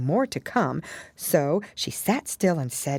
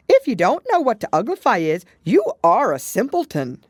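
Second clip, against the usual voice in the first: loud, higher, scolding creature voice; scornful Gryphon; 8 semitones higher, 8 dB louder than usual. A narrator's reading. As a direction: talk down to her.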